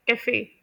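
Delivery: कैफ़े with the weight on the final FE; word stress demo. Shown as a demonstration. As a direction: say कैफ़े French-style, ending on a stressed "fay". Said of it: "इसे usually pronounce किया जाता है".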